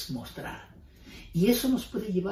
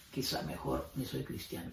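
whispered, softer, like a secret thought; whispered doubt; 9 dB quieter than usual. Retold or imitated. Believer secretly doubting his faith, whispered. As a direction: let the doubt slip out in a whisper.

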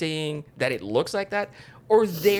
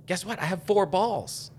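mock bragging; 8 semitones higher, 4 dB louder than usual.

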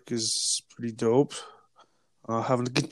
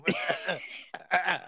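high wheezing laugh like car brakes; squealing laugh; 6 semitones higher, 6 dB quieter than usual. Real, not acted. Laughing with brother on their podcast, squealing wheeze. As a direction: laugh till the breath squeals. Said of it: "You sounded like a car in its brakes".

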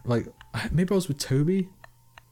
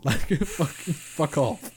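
laughing mock retort; 5 semitones higher, much slower than usual.

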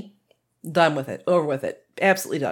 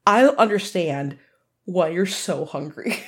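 scolding the dog; 4 dB louder than usual. Retold or imitated. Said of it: "We're like".

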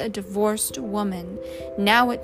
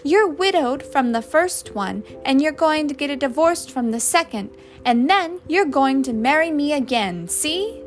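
higher, louder, insistent ordering; angry ultimatum; 6 semitones higher, 7 dB louder than usual. A narrator's reading. Husband ordering his wife to fix the marriage, heated. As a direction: lay down the law, punching each clause.

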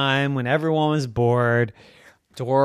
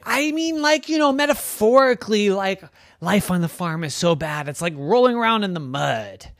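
high, eager little pig calling her friends; Dora the pig voice; 5 semitones higher than usual. Acted. Pig Dora calling to her bored farm friends, high and eager. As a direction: squeal it out to get everyone's attention.

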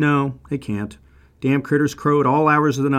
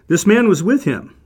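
raised, higher voice pointing him out; accusing call; 7 semitones higher, 6 dB louder than usual. Acted. Servant girl tells the crowd about Peter, accusing and loud.

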